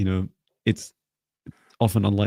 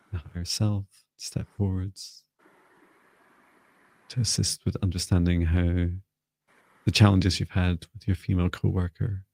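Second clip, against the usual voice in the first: softer, measured channeling voice with long pauses; guided invocation; 4 dB quieter than usual. Real, not acted. Healer inviting a client's guide to step forward, soft invocation. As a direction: gently call the guides in, unhurried.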